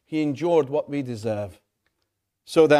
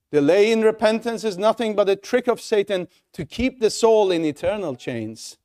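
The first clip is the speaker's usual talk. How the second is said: emphatic; 4 semitones higher than usual. Shown as a demonstration. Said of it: "repeated line".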